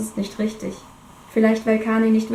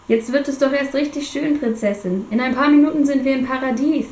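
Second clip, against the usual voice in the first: carefree pilot; 4 semitones higher than usual. Acted. Kane teases in helicopter.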